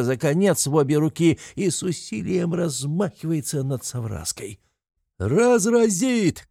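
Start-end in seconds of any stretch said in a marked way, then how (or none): 5.2-6.5 high, very slow cry; alarmed shout. A narrator's reading. The crowd warns of the blow, high slow cry. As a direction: warn in alarm. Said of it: "кричат кругом".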